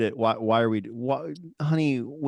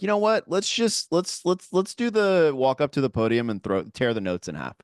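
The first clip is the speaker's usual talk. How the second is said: mock swagger; 3 semitones higher than usual. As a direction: ham up a show-off about to rip the notes. Mocking their overconfident podcast selves.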